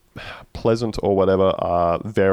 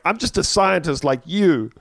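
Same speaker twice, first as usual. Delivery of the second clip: put-on accent forgotten; 9 semitones higher than usual. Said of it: "forgets to do his Middle Eastern accent".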